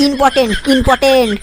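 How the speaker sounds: ইম্পর্টেন্ট said twice as a correction; corrected pronunciation. Acted. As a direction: drum in ইম্পর্টেন্ট with both t sounds. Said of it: "আগে ভালো করে উচ্চারণ করো". (ইম্পর্টেন্ট, শুধরে দেওয়া)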